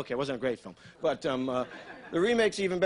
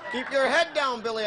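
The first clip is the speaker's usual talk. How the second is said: higher-pitched retold call; mock cry out; 7 semitones higher, 4 dB louder than usual. To little brother stuck in the ball return, mock cry out. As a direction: call a warning, lightly hammed-up. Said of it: "I cried".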